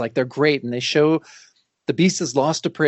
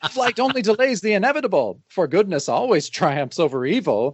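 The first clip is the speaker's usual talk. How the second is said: mock-heroic proclamation, pitched up at first; Hangman; 4 semitones higher than usual. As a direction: declaim it like a pompous comic-book crusader. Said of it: "It's exactly what he sounds like".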